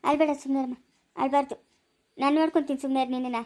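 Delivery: low, tender reassurance; calm a sobbing child gently; soothing. Acted. Mother promising to care for a crying girl, soothing.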